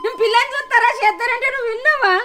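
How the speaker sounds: tearful protest; sobbing retort; crying argument. Acted. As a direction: argue through tears. Mother argues back crying.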